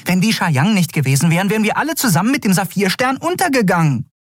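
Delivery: hoch, schnell, aufgebracht; empört und fassungslos, viel höher; völlig außer sich. A narrator's reading. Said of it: "völlig außer sich". (Nelen ist völlig außer sich vor Empörung)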